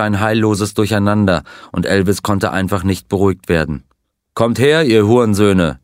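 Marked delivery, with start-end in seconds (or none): 4.4-5.8 louder, shouting challenge at the attackers; enraged shout. Acted. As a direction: bellow it at the men rushing the stage. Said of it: "schrie er".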